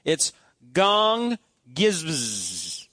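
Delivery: slowly sounding out gong gizbz, drawn-out and careful; Greek pronunciation. Shown as a demonstration. Pastor to congregation, slowly sounding out gong gizbz. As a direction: spell out gong gizbz syllable by syllable. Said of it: "I'm gonna try to pronounce this".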